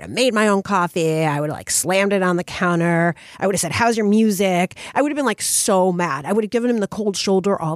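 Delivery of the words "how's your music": passive-aggressive. Retold or imitated. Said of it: "so passive-aggressive".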